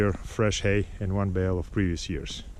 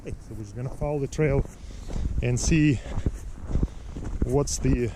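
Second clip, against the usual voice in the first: on a bumpy road. Real, not acted. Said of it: "So sorry about the shaking".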